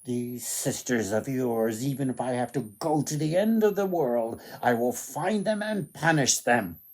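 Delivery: fast, determined vow of revenge; vowing prince. Acted. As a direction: swear to hunt them down, quickly. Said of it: "the prince cried".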